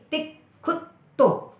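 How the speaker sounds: तिक खुद तो said slowly, split into parts; syllable by syllable. Shown as a demonstration. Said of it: "आप थोड़ा सा प्रेशर दोगे तो कैसे होगा". (तिक खुद तो अलग-अलग धीरे बोलें)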